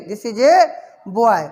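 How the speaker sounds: "a" held and pushed as ay; stress on A. Shown as a demonstration. Teacher repeating for the class, emphatic stressed "a". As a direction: put weight on "a", then pause before boy. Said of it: "जोर दें उस पर कि ए".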